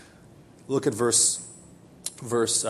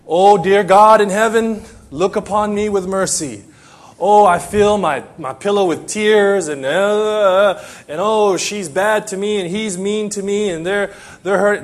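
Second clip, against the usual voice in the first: hammed-up tearful plea, louder at the start; mock crying out; 3 semitones higher, 4 dB louder than usual. Preacher imitates members pouring out hurts to God, mock crying out. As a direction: imitate someone wailing a self-pitying prayer. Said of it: "you've been crying out to the Lord".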